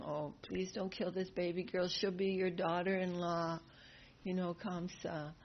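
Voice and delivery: gentle pleading. Retold or imitated. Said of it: "Devaki's pleading".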